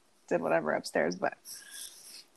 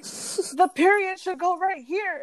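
put-on slow, much higher whiny kid voice; upset son; 10 semitones higher, slower than usual. Son insisting on punctuation in English class, slow high whine. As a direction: drag it out like a fed-up kid. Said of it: "like, freaking out".

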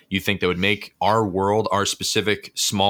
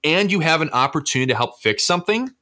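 infomercial voice; 8 semitones higher than usual. Pretend. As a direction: sell it like a late-night ad. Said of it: "just turn on that super infomercial voice".

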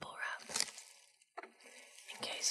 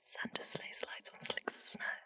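quicker whispered tongue twister; faster try; 3 dB quieter than usual. Shown as a demonstration. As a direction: rush it a little. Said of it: "I wonder if I could do that quite fast".

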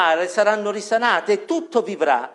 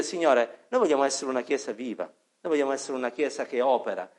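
quiet prayer; 6 semitones lower, 7 dB quieter than usual. Acted. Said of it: "E noi vogliamo dire".

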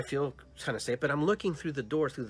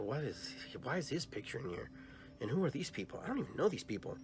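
puzzled; 7 dB quieter than usual. Retold or imitated. Confused finding photos.

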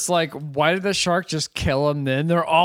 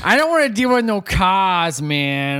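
higher, fast put-on voice; lazy shark voice; 5 semitones higher than usual. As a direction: whine like a shark wanting a holiday. Voicing the shark.

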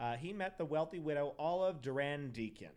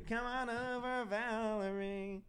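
slightly higher, slow hint of Cockney; mild Cockney attempt; 8 semitones higher, slower than usual. Killer's lure with a lightly voiced Cockney accent. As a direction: drawl the name with a lightly put-on London accent. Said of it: "Is that better?".

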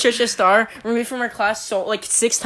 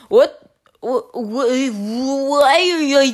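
flustered teacher; 3 semitones higher, much slower than usual. Retold or imitated. Teacher sputtering in retold quarrel.

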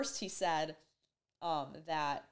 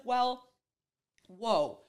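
surprised; 5 semitones higher, 7 dB louder than usual. Retold or imitated. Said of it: "she's like".

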